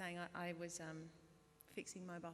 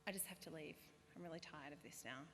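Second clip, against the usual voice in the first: low, soft, backing out; deflated excuse; 3 semitones lower, 7 dB quieter than usual. Retold or imitated. Embarrassed performer excusing herself to family, low and soft. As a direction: make a quiet, low excuse to escape. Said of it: "And I'd be like".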